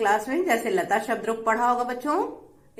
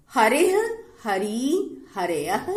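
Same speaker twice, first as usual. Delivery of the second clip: measured recitation with rising endings; pronunciation demonstration; much slower than usual. Shown as a demonstration. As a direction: recite each form separately for learners. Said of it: "शुरू करते हैं इसका उच्चारण".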